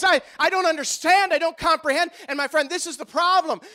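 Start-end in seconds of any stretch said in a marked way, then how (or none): 0.0-2.1 a higher, louder baffled stammer; lightly voiced bewildered scholar; confused Nicodemus. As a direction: sputter like a puzzled scholar. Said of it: "Nicodemus looks and says".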